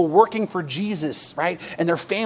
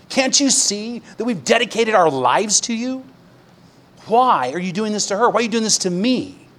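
pleading, rising cries of why; a grieving husband begging God for answers; anguished cry to God; 3 semitones higher than usual. Retold or imitated. Grieving husband crying out to God in pain, pleading.

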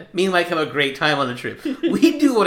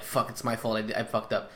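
quiet mutter; 4 semitones lower, 10 dB quieter than usual. Retold or imitated. Driver muttering to himself after a spill, quiet. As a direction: mutter it low and soft, defeated. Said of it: "he gets, like, real quiet".

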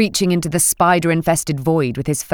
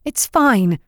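through clenched teeth; 5 semitones higher than usual. Acted. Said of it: "through clenched teeth, trying not to cry".

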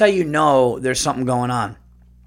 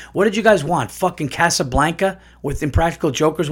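exasperated rant; 4 semitones higher than usual. Real, not acted. Ranting at critics who panned the movie. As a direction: demand it from the critics.

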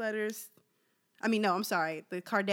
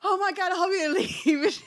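higher, louder, a hammed-up tearful child; mock crying kid; 10 semitones higher, 10 dB louder than usual. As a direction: play the scared kid whining for mom. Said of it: "I'm, like, crying and everything".

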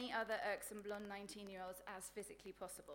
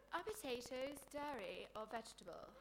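dumb blonde impression; 3 semitones higher than usual. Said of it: "choice examples include".

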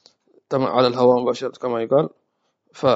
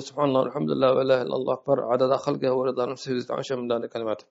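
quick recited dhikr; faster than usual. Shown as a demonstration. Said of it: "مثلًا أقول".

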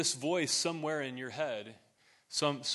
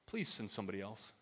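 soft, lowered voice sinking into doubt; self-doubting plea; 5 semitones lower, 9 dB quieter than usual. Acted. Moses begging God to send another, quiet self-doubting plea. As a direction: plead quietly, low and unsure of yourself. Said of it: "Can you feel the self-doubt".

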